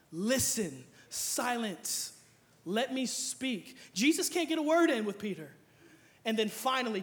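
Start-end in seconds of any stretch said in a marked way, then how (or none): 0.1-3.8 calm and slow, hushing; a hint of God asking for silence; slow, soft God voice. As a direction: gently tell him to be quiet.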